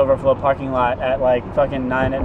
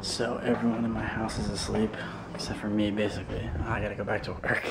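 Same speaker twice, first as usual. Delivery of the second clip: low, soft night-time voice; hushed; 5 semitones lower, 13 dB quieter than usual. Real, not acted. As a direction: keep it down for a sleeping house. Others in the house asleep.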